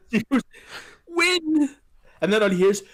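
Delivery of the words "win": high, loud one-word command; urgent command. Retold or imitated. Adrian telling Rocky to win, high loud urging. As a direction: push him to win.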